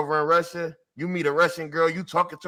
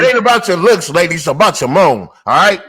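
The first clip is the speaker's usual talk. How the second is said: loud, emphatic lecture; loud mock sermon to the lady; mock preaching; 10 dB louder than usual.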